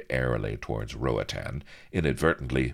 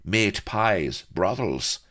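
louder, high, eager listing; helpful interjection; 9 semitones higher, 6 dB louder, slower than usual. A narrator's reading. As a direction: chip in with eager suggestions. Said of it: "put in Blood helpfully".

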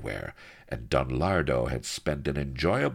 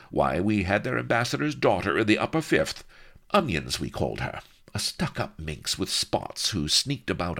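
lightly voiced snobbish lady, higher pitched; haughty noblewoman; 6 semitones higher than usual. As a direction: prattle confidently like an upper-class schoolgirl. Figure of haughty Vanity speaks.

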